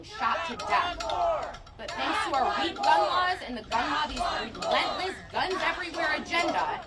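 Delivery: fierce shout. Real, not acted. Survivor denounces weak gun laws to the crowd, shouting. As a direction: hurl it at the gun lobby. Rally speech against gun lobby.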